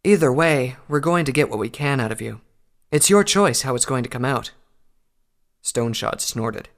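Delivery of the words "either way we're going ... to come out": louder, cheerful menace; loud threat. A narrator's reading. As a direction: press the threat on him. Unicorn threatens a prisoner.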